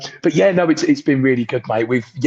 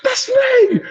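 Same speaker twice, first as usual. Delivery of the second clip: hushed whisper of disbelief; whispered reply. Retold or imitated. Recognised podcast host answers the fan, whispering. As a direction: breathe it out barely voiced. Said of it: "I was like".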